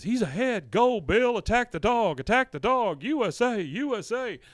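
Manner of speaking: high, loud sports-fan cheer; mock cheering. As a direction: cheer him on in an acted voice. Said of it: "they're all just cheering".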